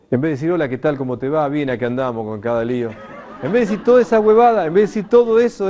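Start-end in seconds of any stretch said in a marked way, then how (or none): 0.5-2.9 a breezy, laughing send-up of idle greetings; mock small talk. Mocking idle everyday greetings. 3.4-5.7 higher, louder and fast with a laugh; laughing outburst. Real, not acted. Laughs at the empty chatter.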